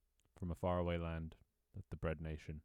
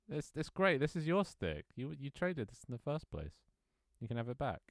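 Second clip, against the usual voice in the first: coaxing voice; 7 semitones higher than usual. Pretend. Cajoling pet to take stick.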